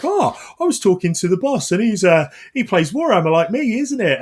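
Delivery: imitated excited gossip. Junior team member gossiping about the boss, imitated excitement. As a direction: mimic a junior spilling staff-room news.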